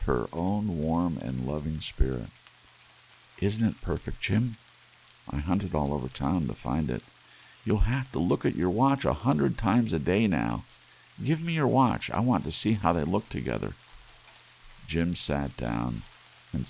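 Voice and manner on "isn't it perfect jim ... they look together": higher, excited eager voice; a wife proudly offering her husband his gift; thrilled wife showing off her present; eager young wife. Acted. Della shows her gift.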